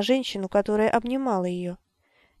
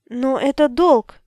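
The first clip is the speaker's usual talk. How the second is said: slow, loud, higher cry; shouting; 4 semitones higher, 7 dB louder, slower than usual. A narrator's reading. Abby shouts at the wizard about the debt, slow loud cry. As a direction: hammer out each word in protest. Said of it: "закричала она".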